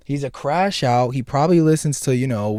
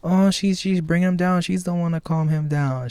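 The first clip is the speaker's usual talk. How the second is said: naive first viewer; 6 semitones higher than usual. Retold or imitated. First watching the movie, higher naive gushing. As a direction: gush it like it's adorable. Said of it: "I'm like".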